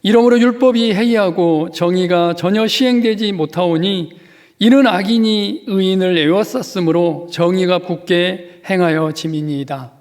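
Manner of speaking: loud, pleading lament read aloud; fervent scripture reading. Acted. Pastor leading the congregation in Habakkuk's lament, fervent reading. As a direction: cry the prophet's complaint out to the hall.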